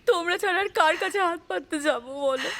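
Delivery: tearful pleading, breath catching in sobs; desperate, weeping plea for help; crying. Acted. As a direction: beg your mother through sobs. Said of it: "কাঁদিস না মা".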